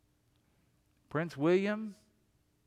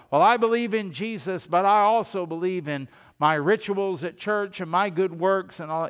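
louder, higher mock of a smug believer; self-reliant churchgoer; 4 semitones higher, 5 dB louder than usual. Preacher mocking a self-trusting churchgoer, louder and higher. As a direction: play the one trusting his rituals.

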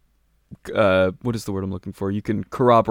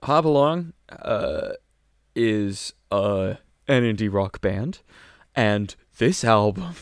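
kindergarten teacher voice; slower than usual. Real, not acted. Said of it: "I'm talking like a kindergarten teacher".

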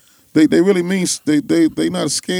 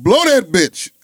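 retold yell, only a little louder; mock loud shout; 3 semitones higher, 4 dB louder, slower than usual. Retelling the young man daring the policeman, a mild mock yell. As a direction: raise it like he's daring the cop to shoot. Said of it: "heightened that, like, voice so loud".

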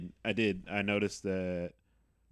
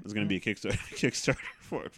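cracking up mid-sentence; failing straight face. Real, not acted. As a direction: try to say it seriously, then break into laughter. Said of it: "I couldn't keep straight face".

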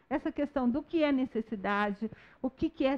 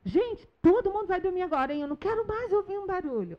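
stern teacher yelling; 8 semitones higher than usual. Retold or imitated. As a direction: imitate a strict teacher shouting at the class. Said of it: "tem professora que às vezes fala assim".

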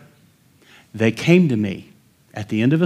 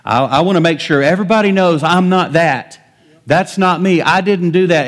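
higher, louder protesting; mock defensiveness; 6 semitones higher, 5 dB louder than usual. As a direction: protest your innocence.

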